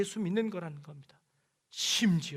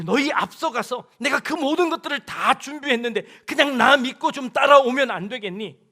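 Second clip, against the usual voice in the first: louder, laughing invitation from God; 4 semitones higher, 10 dB louder than usual. Acted. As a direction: coax them with a chuckle. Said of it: "라고 이야기하는 겁니다".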